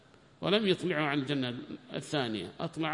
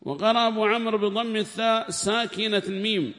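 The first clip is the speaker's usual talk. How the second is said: formal text reading; 8 semitones higher, 6 dB louder than usual. Acted. Reader reads the tafsir aloud in class, loud and formal. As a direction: read the book out to the class in a raised voice.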